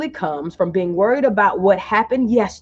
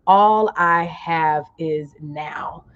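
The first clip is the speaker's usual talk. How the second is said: very slow, lower in pitch; slower, lower affirmation; 4 semitones lower, much slower than usual. Shown as a demonstration. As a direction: draw it out and let it land. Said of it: "type in the comments".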